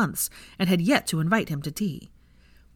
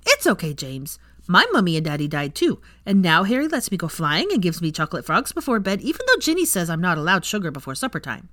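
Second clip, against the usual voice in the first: a hint of a cheerful boy; 3 dB louder than usual. Teddy comforts the toddler.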